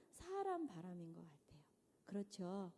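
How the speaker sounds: hushed, confiding whisper; whispered aside. Real, not acted. Preacher confiding to congregation in a whisper. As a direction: lean in and whisper it. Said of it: "whispered aside to congregation".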